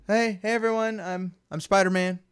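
imitating a nervous would-be cool kid; lightly mimicked awkward greeting; nervously acting cool. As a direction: play it casual while secretly freaking out. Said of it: "trying to act all cool and everything when he, he's freaking out".

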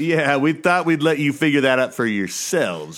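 lightly exaggerated sing-song announcing; odd put-on talk. Co-host explaining last podcast's echo to listeners, odd put-on voice. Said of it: "What's wrong with you? ... Why are you talking like this?".

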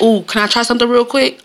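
lightly chirpy request; cheerful offer. Retold or imitated. Asking a coworker to let her try, chirpy. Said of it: "I'd be like".

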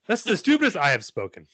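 silly delivery. Shown as a demonstration. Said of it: "tone and inflection can change that".

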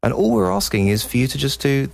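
mock sales pitch; infomercial voice. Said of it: "sounds like an infomercial".

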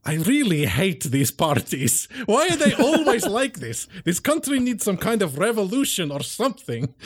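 put-on fed-up aristocrat voice; grumbling vampire. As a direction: complain theatrically through a laugh. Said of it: "Can I just be like".

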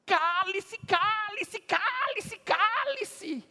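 high, loud mocking crowd voice; a crowd telling the beggar to shut up, high and jeering; crowd yelling shut up. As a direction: hush the beggar down, mocking him. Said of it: "A multidão gritava".

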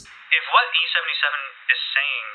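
brisk, formal commander; curt commanding Amelia. Acted. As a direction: press him like a stern race official. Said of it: "she says".

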